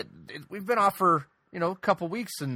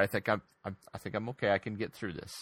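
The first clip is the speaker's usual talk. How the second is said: mock emotional; 5 semitones lower, 5 dB quieter, faster than usual. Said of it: "I'm just a little emotional right now".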